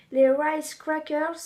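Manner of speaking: slow, self-mocking English accent on rice crackers. Vlogger reading a snack bag in a mock English accent. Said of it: "avec mon bel accent".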